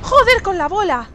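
loud, slow exasperated curse; frustrated outburst. Real, not acted. Player cursing a missed arrow shot, loud and slow. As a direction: spit out the curse at the wasted arrow. Reacting to the boss attack.

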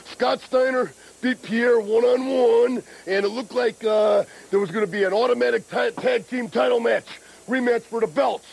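breathless from running; talking between breaths. Real, not acted. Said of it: "I'm a little out of breath".

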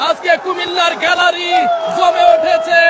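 excited commentary. Real, not acted. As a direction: ride the crowd's energy. Reporter after goal. (উত্তেজিত ধারাভাষ্য)

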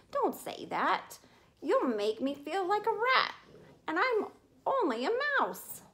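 a mouse wailing in despair. Acted. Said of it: "wailed Tucker Mouse".

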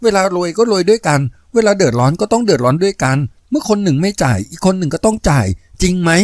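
lightly voiced young woman reasoning; young woman's voice.

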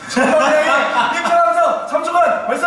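high, slow, laughing command; laughing hype cue. Real, not acted. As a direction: fire up the crowd through laughter. Cueing cast entrance cheer.

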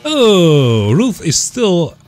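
put-on high, gossipy old woman voice; old lady Ruth voice. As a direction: squeak it out like a nosy old lady. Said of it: "my Ruth voice is broken".

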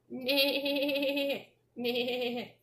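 horse neigh. Pretend. Animal sound in picture book.

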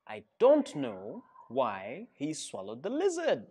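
put-on lively, sing-song read-aloud for kids; animated storybook narration; reading to children. A narrator's reading. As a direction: tell it like a storybook to a class. Reads picture book to children.

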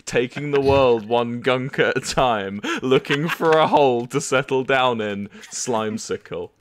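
slow, grand proclamation of titles; mock-solemn reading of the queen's titles; dramatic reading. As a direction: read it like a royal herald. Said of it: "Ooh, dramatic reading".

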